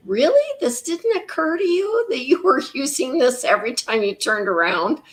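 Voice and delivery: high, rising disbelief settling down; mock-exasperated quote with a laugh; incredulous self-scolding. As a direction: scold yourself in amused disbelief. Voicing scolding thought at own writing.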